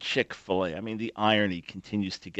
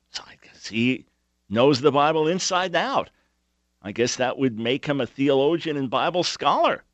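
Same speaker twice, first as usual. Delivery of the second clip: real sarcasm, pitch swooping up on the punchline; mock being impressed by his credentials; sarcastic; 4 semitones higher, 4 dB louder than usual. Real, not acted. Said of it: "Forgive my sarcasm".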